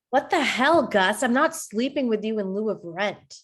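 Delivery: a touch of disgusted outrage at Gus; shocked and offended, pushing back; appalled and disgusted. Acted. Kennedy rejecting her roommate's crude offer, disgusted. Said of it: "Kennedy is appalled and disgusted".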